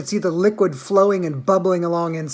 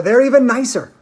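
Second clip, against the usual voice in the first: much higher and louder, coaxing; eager Mr Wonka; 5 semitones higher, 5 dB louder than usual. A narrator's reading. Wonka urging the children to taste, eager and high. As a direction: tempt them with a buttercup.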